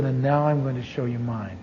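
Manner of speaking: gently, like a loving father; loving, compassionate. Retold or imitated. God speaking tenderly to John, softly and lovingly. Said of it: "He spoke very lovingly and very compassionately".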